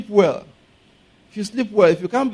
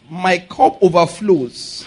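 slow declaration; much slower than usual. Shown as a demonstration. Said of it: "Say it".

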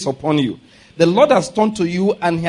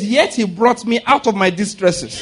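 slow declaration; 2 semitones higher than usual. Shown as a demonstration. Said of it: "Say it".

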